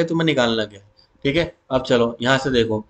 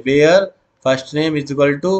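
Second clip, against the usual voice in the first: very slow, word by word; slow dictation; much slower than usual. Shown as a demonstration. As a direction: spell it out for students to copy. Teacher dictating SQL query.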